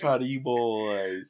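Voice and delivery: slow, loud, hammed-up proud auntie; mock auntie voice. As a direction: stretch it out like an auntie shouting praise. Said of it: "sounding like somebody auntie".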